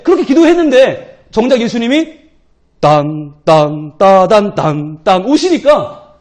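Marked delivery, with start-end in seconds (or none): 2.8-5.2 mock dramatic entrance tune.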